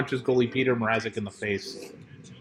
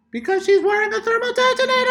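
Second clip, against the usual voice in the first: high, excited exclaim. Real, not acted.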